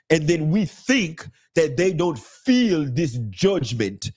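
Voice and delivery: a hint of the woman, spelled out calmly; quoting the African woman. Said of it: "the African woman then continues to say".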